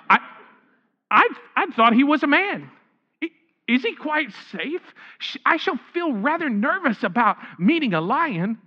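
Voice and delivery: a touch of an anxious Susan; Susan, nervous. Acted. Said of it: "said Susan".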